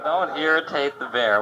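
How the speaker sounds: mock-incredulous repeat of the warning; mocking the pamphlet. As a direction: sneer at the pamphlet's advice. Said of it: "Oh, boy".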